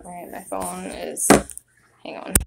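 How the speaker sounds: panting after running the stairs; breathless, gasping between words; out of breath. Real, not acted. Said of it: "So out of breath".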